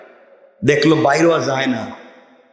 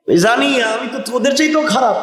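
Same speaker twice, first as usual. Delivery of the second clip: high-pitched acted retort; insistent retort; 8 semitones higher than usual. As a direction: answer the friends with the voice jumped up high. Acted exchange between trapped friends. (চড়া গলায় পাল্টা জবাব)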